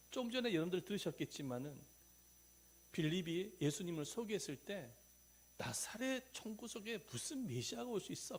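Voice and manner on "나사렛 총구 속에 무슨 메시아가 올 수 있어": imitated doubting retort, higher pitched; negative, dismissive. Nathanael doubts a Messiah from a village, imitated dismissive tone. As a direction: mimic someone dismissing the idea. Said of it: "부정적인 말을 했던 사람이에요".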